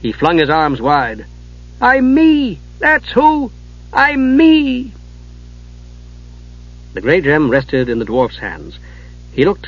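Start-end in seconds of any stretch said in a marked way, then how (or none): 1.8-4.9 joyful cry. Acted. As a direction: shout it with relief. Kender joyfully recovers himself.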